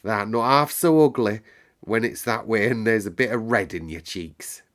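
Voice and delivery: lightly broad moorland dialect; homely country dialect accent; attempted dialect accent. Maid complimenting the girl in country dialect. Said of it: "I can't do that accent tonight".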